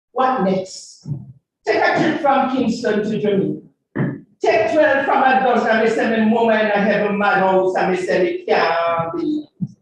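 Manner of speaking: rhythmic patois recitation; dub poem. Acted. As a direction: chant it to the beat.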